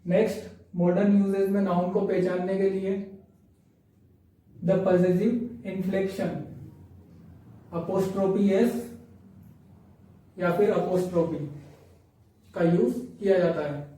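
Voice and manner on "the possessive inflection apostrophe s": very slow, stretched words; slow dictation. Shown as a demonstration. Teacher reading the possessive rule to students, slowly. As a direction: spell out the term at a crawl. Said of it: "teacher reads rule slowly".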